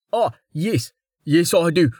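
bowing, eager-to-please commoner; humble weaver. A narrator's reading. Wes replies eagerly.

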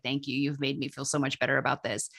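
soft, low, sincere gratitude; retold grateful thanks. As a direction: voice a relieved friend quietly thanking you. Retelling grateful friend's thanks afterwards.

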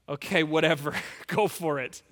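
low, offhand giving in with a chuckle; dismissive. Acted. King Saul giving in to the boy, dismissive.

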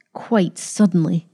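bitter, sneering echo of "Quite suddenly"; mocking. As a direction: throw "Quite suddenly" back with a mild sneer. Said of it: "she mocked".

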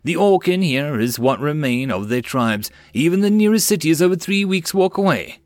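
mild exasperated outburst; incredulous cry. Acted. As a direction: cry out at the absurd question. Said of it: "the man cried".

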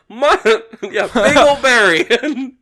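slow laughing drawl of the name; hammed-up laughing phone reply; mock answering. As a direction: laugh through it as a fake caller. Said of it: "I'm just over here like".

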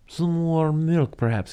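high, very slow creepy offer; old housekeeper voice. Retold or imitated. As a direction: drag out the offer. Voicing Frau Blucher.

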